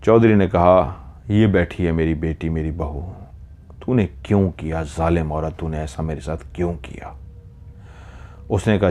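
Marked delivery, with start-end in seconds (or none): 1.3-7.2 low voice, sinking to very soft; hushed, understated accusation; pained reproach. Acted. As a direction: reproach her quietly, as a wronged elder. Wronged elder confronts the midwife.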